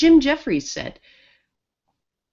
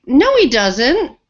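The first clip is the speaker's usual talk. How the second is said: insistent coworker denial; 4 semitones higher, 5 dB louder, slower than usual. Retold or imitated. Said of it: "And she's like".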